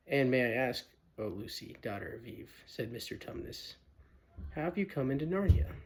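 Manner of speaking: polite, nervous faun, quick at first; a timid faun asking carefully; shy faun. Acted. Fawn politely questions Lucy, lightly voiced nervous faun.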